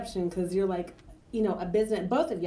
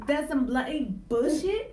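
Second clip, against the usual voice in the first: mock English accent; 4 semitones higher, slower than usual. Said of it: "he said it with an English accent".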